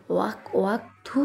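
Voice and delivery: gagging and spitting out a bitter taste; retch, then spit; disgusted gag at bitter beer. Acted. Bitter drink makes him retch.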